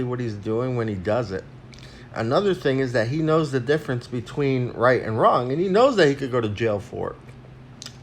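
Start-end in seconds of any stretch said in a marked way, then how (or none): 2.1-7.9 talking while eating; words round a bite of food; mouth full. Real, not acted. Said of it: "I'm eating".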